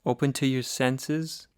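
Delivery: calm, slightly softened meditation voice with long pauses; guided meditation. Acted. Teacher guiding listeners to sit and breathe, guided meditation. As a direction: ease them gently into listening, leaving long silences.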